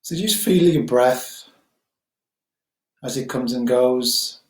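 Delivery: calm, unhurried guiding voice with long pauses; guided meditation. Acted. Teacher guiding listeners to settle on the breath, guided meditation. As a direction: gently settle listeners, leaving space between phrases.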